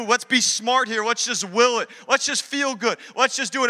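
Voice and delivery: a group talking itself into it; think tank brainstorm. Retold or imitated. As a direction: build eagerness idea by idea, pitch rising. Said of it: "this think tank going".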